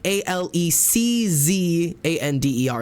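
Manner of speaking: letters spaced out slowly; spelling out slowly. Retold or imitated. Spelling her name slowly to the doctor's office. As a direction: spell each letter deliberately. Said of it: "I'm having trouble pulling you up".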